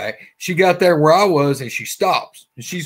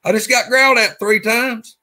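higher, hushed urgency, imitating a rattled friend; spooked retelling; 9 semitones higher, 4 dB louder than usual. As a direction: retell it like he's still shaken. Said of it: "he's pretty tripped out about that".

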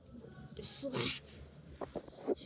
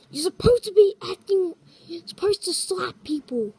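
louder, higher exasperated telling-off; exasperated scolding; 3 semitones higher, 6 dB louder than usual. Acted. Crewmate scolding the actor to slap people. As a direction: tell him off firmly.

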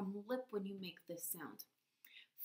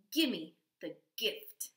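eager gimme; 6 dB louder, slower than usual. Pretend. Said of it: "pretend like you are, um, saying".

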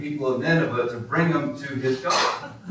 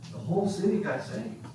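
soft, raised-pitch wonder; hushed amazement; 5 semitones higher, 7 dB quieter than usual. Real, not acted. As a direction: repeat it softly, marvelling. Repeats the cry in hushed wonder.

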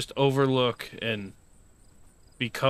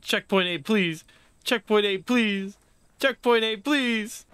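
begging, pitched higher with each repeat; urgent pleading; 7 semitones higher than usual. Real, not acted. Begging the game for a checkpoint.

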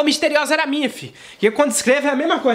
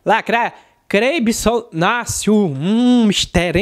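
solemn preacher reading a name he can't make out; pastor's pulpit announcement, drawn out slow; pastor announcing; much slower than usual. Retold or imitated. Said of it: "o pastor fazendo a apresentação".

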